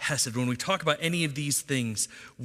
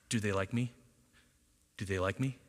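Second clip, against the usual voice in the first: softer, worried inner voice asking twice; anxious self-doubt; 6 semitones lower, 7 dB quieter than usual. Retold or imitated. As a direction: voice the nagging worry quietly. Anxious inner voice of approval-seeker.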